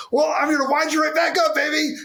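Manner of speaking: crank the energy right back up; playful shout. Retold or imitated. Kyle answering the tired CEO with a high playful shout. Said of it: "right on the spot was".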